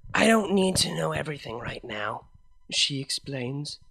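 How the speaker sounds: lightly voiced mare, loving and earnest; gentle heartfelt vow to a partner; Vinyl, tender. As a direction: reassure her with full devotion. Vinyl comforts her.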